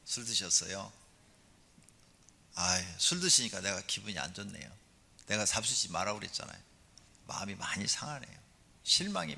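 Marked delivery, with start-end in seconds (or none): 0.0-6.6 soft, gentle reproach to husband; gentle wife. Shown as a demonstration. Wife gently speaking to her drunk husband, soft. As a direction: say it mildly, no scolding. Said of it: "온유한 성품으로 이렇게 말을 하세요".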